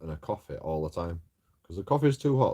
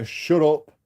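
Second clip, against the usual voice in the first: retold shout; 7 semitones higher, 8 dB louder than usual. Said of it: "they tell you".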